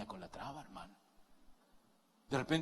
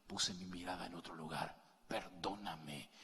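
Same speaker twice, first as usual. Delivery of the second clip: soft, lower, slowing repentant prayer; humble prayer; 7 semitones lower, 7 dB quieter than usual. Retold or imitated. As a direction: confess it quietly, lower and slowing down. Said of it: "y le digas". (oración humilde, suave y lenta)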